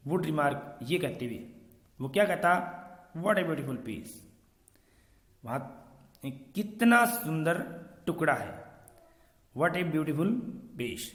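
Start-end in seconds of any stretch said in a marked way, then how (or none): 3.2-4.1 put-on light German accent, w as v. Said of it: "तो ये German accent होगी ना". 9.6-11.1 German accent, v for w. Shown as a demonstration. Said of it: "तो ये German accent होगी ना".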